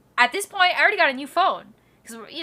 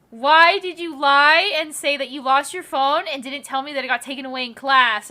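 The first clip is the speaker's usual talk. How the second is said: mildly cross, raised-voice imitation of mom; retold angry mom; 3 semitones higher, 6 dB louder than usual. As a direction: imitate a mom demanding an explanation, a touch heated. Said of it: "She was so mad".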